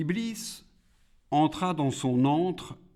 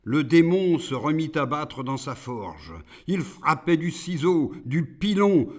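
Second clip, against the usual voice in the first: dramatic poem narration; 7 semitones higher, 7 dB louder than usual. A narrator's reading. Heightened poem narration of the forge.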